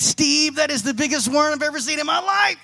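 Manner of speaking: fast, amazed, half-shouted gush; a fish losing it over the biggest worm ever; mock awe, slowing down on so juicy; excited fish. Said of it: "And he's like".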